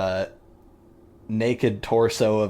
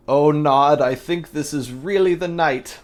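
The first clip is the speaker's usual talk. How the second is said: higher and louder, thrilled cry; gleeful scientist's outburst; excited mad doctor; 7 semitones higher, 7 dB louder than usual. Acted. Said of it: "I didn't do his accent".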